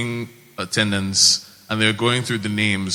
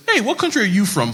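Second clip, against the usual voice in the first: put-on old homeless man; 8 semitones higher than usual. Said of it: "an old homeless man comes up".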